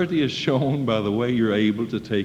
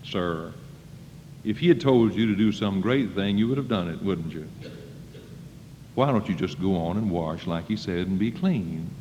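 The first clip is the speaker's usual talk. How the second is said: lower, softer, coaxing plea; a soft reasoning private; gentle servant; 6 semitones lower, 4 dB quieter than usual. Retold or imitated. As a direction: coax him kindly like a humble servant. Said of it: "One of his privates came up to him and said".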